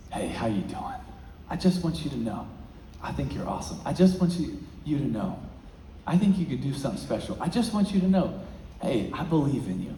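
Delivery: soft, hushed reassurance; gentle encouragement. Retold or imitated. Teacher quietly encouraging a struggling student, soft and tender. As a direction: speak it softly, like telling him he matters.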